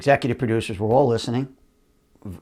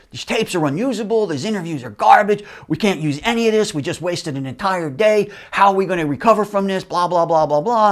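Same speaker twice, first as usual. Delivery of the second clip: high, mock-angry rant of the client; retelling a screaming exec in a raised, higher voice; mock furious yell; 6 semitones higher than usual. Client from Fox raging about the tapes, mock yelling. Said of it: "screaming, livid".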